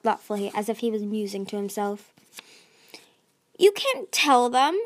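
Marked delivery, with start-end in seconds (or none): 3.6-4.8 slow, louder, higher shout. A narrator's reading. Tsunami shouts to stop Whirlpool telling the queens. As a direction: stretch each word into a desperate shout. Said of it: "Tsunami shouted".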